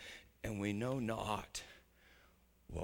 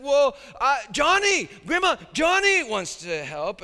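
put-on high, loud bratty girl voice; sly little sister; 12 semitones higher, 12 dB louder than usual. Sister Sally dodging chores by volunteering Johnny, high bratty. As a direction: pass the chore off sweetly to her brother. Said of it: "she said".

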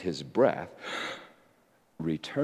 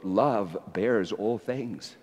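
scripture reading; 4 semitones higher, slower than usual. Shown as a demonstration. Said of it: "He wrote".

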